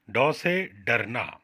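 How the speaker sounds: slow, careful ड से डरना; teacher drawing out each sound; slow demonstration. Shown as a demonstration. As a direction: spell it out slowly for children. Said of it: "उसका उच्चारण कैसे होता है".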